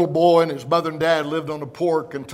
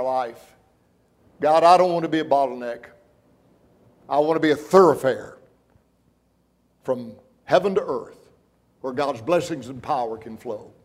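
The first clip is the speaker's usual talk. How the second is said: heartfelt prayer. Acted. Preacher voices congregation's prayer.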